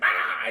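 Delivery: short rough "ah" yell; mock battle cry. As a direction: imitate a monster's attack cry. Imitates the Predator's battle cry.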